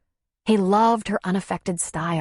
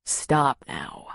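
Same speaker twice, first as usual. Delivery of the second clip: gentle; 4 semitones lower than usual. A narrator's reading. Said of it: "he said gently".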